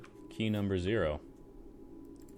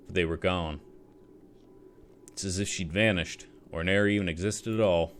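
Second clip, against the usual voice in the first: put-on drunk soldier voice; 3 dB louder than usual. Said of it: "rummy drunk soldier voice".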